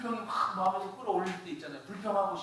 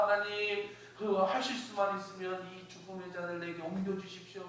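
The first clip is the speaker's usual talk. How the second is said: pleading prayer, lightly raised pitch; Jesus; 3 semitones higher than usual. Acted. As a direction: lightly act out an anxious plea to God. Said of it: "기도하시더라는 거야".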